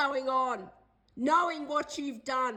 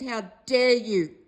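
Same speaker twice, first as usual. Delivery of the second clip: real angry outburst; 5 semitones lower, 6 dB louder, slower than usual. Real, not acted. Furious rant at housing company.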